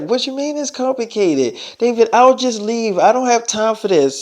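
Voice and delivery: a hint of an irritated girl; Madison, annoyed. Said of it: "She's like".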